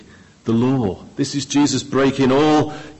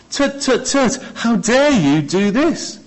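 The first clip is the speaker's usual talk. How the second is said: high disapproving tut tut, how dare you; higher mock scolding; mock tutting; 8 semitones higher than usual. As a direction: play the shocked onlookers, scolding.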